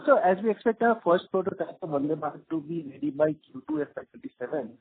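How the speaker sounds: faint voice cutting out on phone; barely audible. Real, not acted. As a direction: fade away from the mic mid-sentence. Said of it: "your voice is again breaking".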